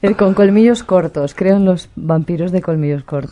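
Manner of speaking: muffled behind a face mask; through a face mask. Real, not acted. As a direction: talk with a mask over your mouth. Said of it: "Estás hablando con la mascarilla". (hablando con la mascarilla)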